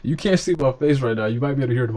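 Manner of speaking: lines squeezed out through real laughter; amused, giggly delivery; laughing while talking. Real, not acted. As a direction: grin and laugh into the words. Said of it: "I'm laughing, but there's nothing funny".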